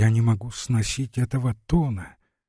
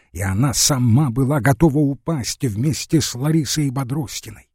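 usual speaking voice

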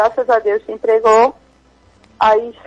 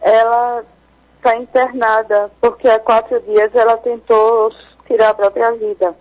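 choked-up voice. Real, not acted. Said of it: "Perdoe a voz embargada".

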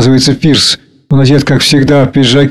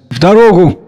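higher, lightly joyful exclamation; 5 semitones higher than usual. A narrator's reading. Anya ready to set off, joyful. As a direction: exclaim it with gentle delight. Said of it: "Аня радостно".

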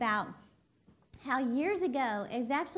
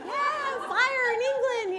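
much higher, bright sarcastic whoop; mock cheer; 11 semitones higher, 4 dB louder, slower than usual. Mother and daughter posting fire alarm photos, mock excited cheer. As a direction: celebrate like it's a party.

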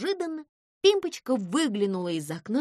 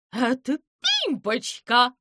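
shout; 2 semitones higher, 5 dB louder than usual. A narrator's reading. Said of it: "крикнул Скворец".

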